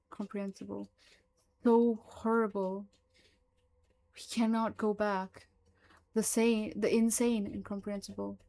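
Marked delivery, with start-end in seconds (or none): 1.6-7.5 louder, frightened pleading; fearful. Acted. Frightened creature explains itself to Mullins, louder. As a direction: blurt it out in fear. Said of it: "fear in its voice is apparent".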